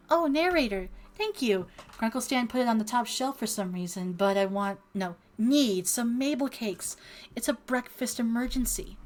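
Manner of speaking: put-on cheerful girl voice. Reads Mabel's lines in voice.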